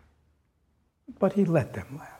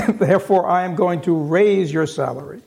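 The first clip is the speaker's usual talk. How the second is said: Scrooge's reveal; 2 semitones higher, 7 dB louder than usual. Acted. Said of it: "Scrooge's surprise reveal".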